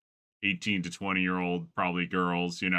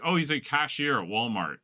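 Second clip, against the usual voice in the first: higher, lightly voiced cheerful girl; mock valley girl; 7 semitones higher, 3 dB louder than usual. Girl telling the interviewer where he works, mock cheerful. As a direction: say it like a clueless girl, proud. Retold girl naming boyfriend's job.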